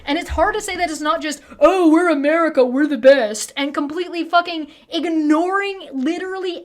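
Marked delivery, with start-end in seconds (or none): 1.6-3.5 smug hammed-up patriot voice; mock American boast. Mocking Americans while ranting to viewers, smug boast. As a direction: sneer it like a proud flag-waver.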